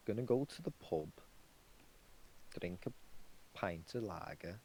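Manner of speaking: a clumsy mock Welsh accent, trailing off; bad Welsh accent. Shown as a demonstration. Showing a friend his bad Welsh, mock accent. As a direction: attempt a Welsh pub-goer, badly. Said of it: "that's terrible".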